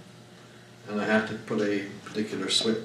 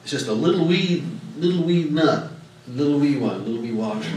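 mock nonchalance; 3 semitones higher, 4 dB louder than usual. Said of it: "You say".

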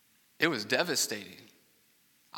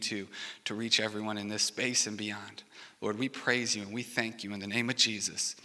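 pastor's prayer. Acted. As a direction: pray aloud, sincere and humble. Pastor leads opening prayer.

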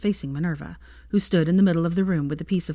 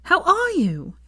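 very high, eager question; delighted greeting; 13 semitones higher, 3 dB louder, slower than usual. Acted. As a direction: bubble over at seeing him. Hermione hugging Harry.

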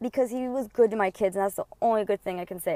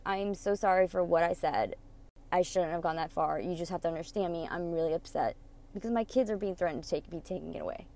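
fake tearful apology; 4 semitones lower, 6 dB quieter than usual. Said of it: "I put the fakest show on".

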